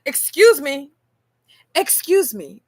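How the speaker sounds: a pointed, sassy excuse me; indignant excuse me. Retold or imitated. Coworker scolding her for refusing lunch, sassy. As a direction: cut her off with mock indignation. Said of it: "And she said".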